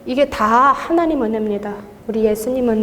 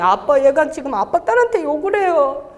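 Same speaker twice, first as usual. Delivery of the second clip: milder, higher-pitched retold tattle; tattling to daddy; 4 semitones higher than usual. Testifier recapping her complaint to God, light tattling. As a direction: lightly imitate a daughter telling on someone. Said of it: "하나님 아버지한테 제가 일렀잖아요".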